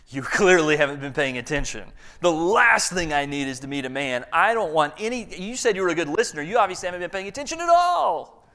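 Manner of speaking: irritated woman telling him off; frustrated retort. Retold or imitated. Woman snaps back at the recruiter.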